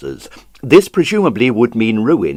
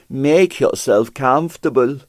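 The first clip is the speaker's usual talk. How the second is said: fawning; 3 semitones higher than usual. Acted. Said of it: "fawned Pavel".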